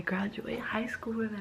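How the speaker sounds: tearful whisper through crying; whispering while still teary; crying, worn out. Real, not acted. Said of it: "I can't stop crying".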